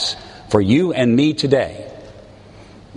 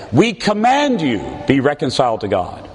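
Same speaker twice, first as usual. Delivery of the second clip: mock command. Preacher mocks a commanding apostle, bossy. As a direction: bark it out like an order. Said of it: "He does not say".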